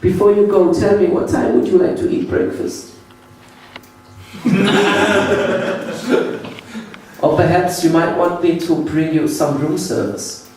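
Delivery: put-on high, overly polite German accent; sinister hospitality in a German accent; creepy German clerk. Clerk offering breakfast and room service, creepy German accent. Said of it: "He was like".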